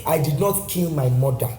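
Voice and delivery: lightly voiced grandma, slow; a hint of a scolding grandmother; grandma's line said slowly; grandma's saying. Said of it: "my grandma".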